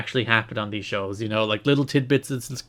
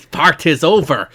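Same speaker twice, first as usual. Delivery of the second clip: laughing mock Scottish accent; 2 semitones higher, 6 dB louder than usual. Laughing as the fake accent ends, mock Scottish. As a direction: drop into a jokey brogue. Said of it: "I'm veered more to Scottish here".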